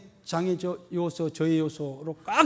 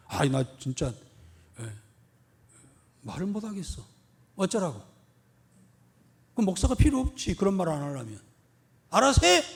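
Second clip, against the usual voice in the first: talking back. Retold or imitated. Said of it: "하고 대드는 사람이 있어요".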